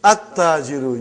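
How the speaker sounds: At-tajiru with a doubled t and no l; lam not pronounced. Shown as a demonstration. Teacher showing a sun letter, silent l in At-tajiru. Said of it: "You did not pronounce lam".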